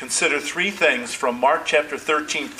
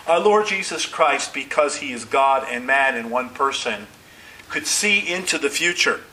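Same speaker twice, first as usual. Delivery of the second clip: normal talking voice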